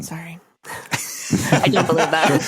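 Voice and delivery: said through a real laugh. Real, not acted. Laughs while apologizing for disagreeing.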